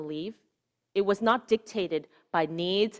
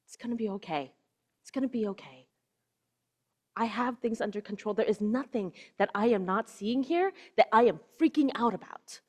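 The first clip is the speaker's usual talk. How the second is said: gently reassuring. Retold or imitated. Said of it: "Not in a condescending way".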